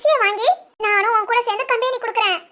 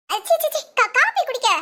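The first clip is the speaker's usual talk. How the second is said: stammering, slightly raised-pitch cover story; flustered gabbling; 3 semitones higher than usual. Acted. Daughter covering up the cup to her mother, flustered. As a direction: trip over the words of a hasty excuse. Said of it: "ஏன்டி படபடன்னு பேசிட்டு இருக்க".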